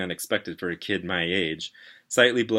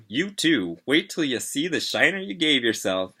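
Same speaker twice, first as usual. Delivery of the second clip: higher, lively, friendly ribbing; friendly teasing; 8 semitones higher, 4 dB louder than usual. A narrator's reading. Friendly paramedic joking with patient about his shiner, teasing. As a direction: tease with bouncy, swooping pitch. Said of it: "friendly too".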